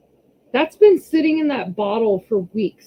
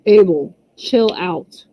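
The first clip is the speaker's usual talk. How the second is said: calling out; 2 semitones lower, slower than usual. Real, not acted. Calling son to calm down.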